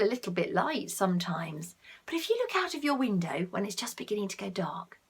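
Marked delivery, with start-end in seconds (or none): 2.0-5.0 fast soft whisper; bedtime whisper. Real, not acted. Talking to a child at bedtime, soft whisper. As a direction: whisper it like a secret.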